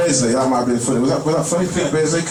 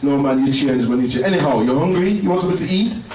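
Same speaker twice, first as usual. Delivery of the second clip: put-on mum's Jamaican accent; 5 semitones higher than usual. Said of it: "my mum says".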